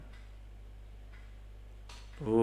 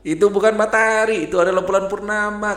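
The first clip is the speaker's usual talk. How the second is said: high owl voice, a touch of mocking laughter; owl laughing at rooster; 8 semitones higher, 4 dB louder, faster than usual. Owl mocks the rooster about the full moon, high and a bit louder. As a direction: correct the rooster with a hint of owl amusement. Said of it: "tertawa terbahak-bahak".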